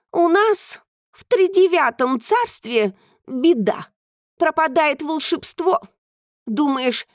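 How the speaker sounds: a hint of a proud cat; lightly voiced cat. Cat speaking.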